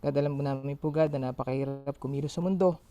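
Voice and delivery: earnest spoken prayer. Acted. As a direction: pray sincerely to God aloud. Leads an opening prayer.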